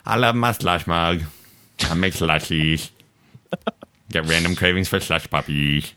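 speaking with a lisp. Real, not acted. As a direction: lisp the s sounds. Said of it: "I don't know why I'm lisping".

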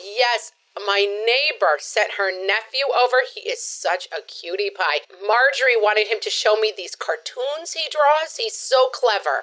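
lightly voiced chatty neighborhood mom; breezy mom who is proud of the nephew; gossipy suburban mom. Sketch, chatty mom character.

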